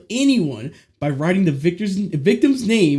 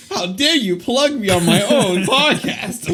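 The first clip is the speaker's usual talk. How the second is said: laughing; 4 semitones higher, slower than usual. Real, not acted. Laughing at being plugged.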